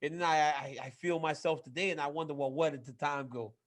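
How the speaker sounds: lightly put-on Southern accent, wistful; a hint of the Undertaker's Southern accent, musing; mild Southern accent impression of the Undertaker; deep Southern accent. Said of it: "in that deep Southern, you know, accent".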